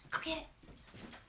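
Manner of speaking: slow, soft, breathy coax; urging the dog. Real, not acted. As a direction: egg the pup on to fetch.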